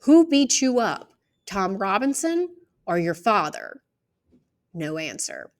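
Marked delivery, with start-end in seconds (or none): 0.0-3.8 higher, louder demand; pressing. Acted. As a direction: hit the question hard. Climax of cross-examination.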